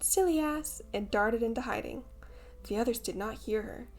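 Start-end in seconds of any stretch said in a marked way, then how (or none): 0.0-0.8 mock shout. A narrator's reading. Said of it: "Tinker Bell shouted".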